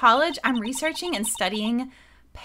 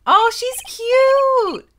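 put-on high, drawn-out valley girl voice; man doing a breathy-free valley girl; 9 semitones higher, 7 dB louder, much slower than usual. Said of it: "Valley Girl".

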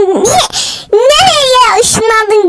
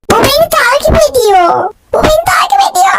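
panicked wail; 7 semitones higher than usual. Acted. Baby chasing him in game.

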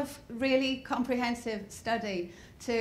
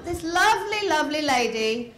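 posh English; 3 semitones higher, 4 dB louder than usual. Retold or imitated. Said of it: "speaks like the Queen".

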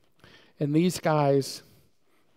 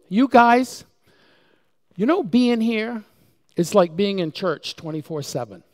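much higher and louder exasperated outburst; frustrated daughter; 7 semitones higher, 8 dB louder than usual. Retold or imitated. Preacher retelling his daughter's exasperated complaint, high and loud. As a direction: vent the frustration loudly. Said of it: "one day she was so frustrated".

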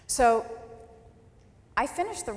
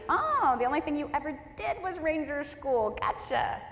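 higher, snide mock dismissal; sarcastic mocking; 7 semitones higher than usual. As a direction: sneer it, then breathe the last word. Mocking an online commenter.

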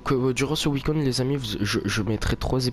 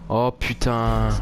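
slow drawn-out startled oh; 3 dB louder, much slower than usual. Real, not acted. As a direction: react to a sudden scare. Startled by picture in game.

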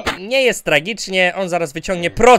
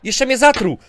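normal talking voice

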